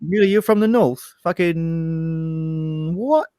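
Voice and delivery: put-on high-pitched, incredulous South London accent; mock disbelief in high South London voice. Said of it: "from South London, like I am right now".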